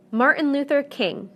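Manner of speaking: Martin Luther KING, weight on King; stress on last segment. Shown as a demonstration. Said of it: "stress is always at the end".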